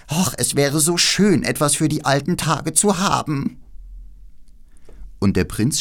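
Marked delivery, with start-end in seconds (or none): 0.1-3.6 alte Krähen. Acted.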